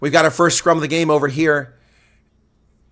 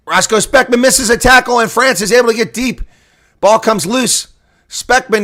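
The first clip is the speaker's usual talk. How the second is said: excited call; 7 semitones higher, 3 dB louder than usual. Real, not acted. Commentator calls a French break.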